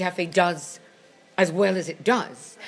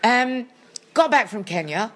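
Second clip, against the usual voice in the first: raised, theatrical launch into the tale; louder dramatic storyteller; 4 semitones higher, 4 dB louder than usual. Real, not acted. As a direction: announce the story with relish. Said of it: "dramatic storyteller echo".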